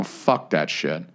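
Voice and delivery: low, slow, soft and resigned; muttered curse. Real, not acted. Griping to his cohost about the new bumper, low and slow. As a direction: let it drop out low and slow. Repeated curse, first take.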